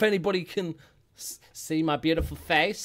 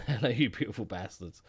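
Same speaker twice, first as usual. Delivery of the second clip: put-on lower, laughing try at an American accent; half-hearted American accent; 3 semitones lower than usual. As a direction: toss off a failed American accent with a chuckle. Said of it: "I can't do American accent".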